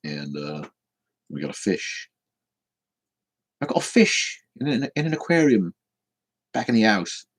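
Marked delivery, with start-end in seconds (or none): 3.6-7.2 suddenly high, playful put-on voice. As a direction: pitch it way up, as a silly bit. Puts on high voice about fish.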